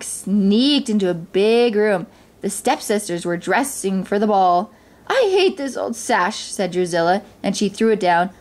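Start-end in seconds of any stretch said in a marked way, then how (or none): 5.1-6.4 higher-pitched mild tantrum; petulant stepsister. A narrator's reading. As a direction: complain like a spoiled stepsister. Drusilla throws down the sash.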